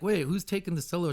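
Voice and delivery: bossy diva. Retold or imitated. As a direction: play a singer taking charge of the band. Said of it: "She was like".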